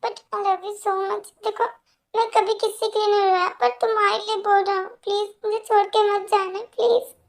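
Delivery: desperate, weepy declaration of love; tearful apology. Acted. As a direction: beg forgiveness on the verge of tears. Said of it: "मेरे लिए रो रहे हो".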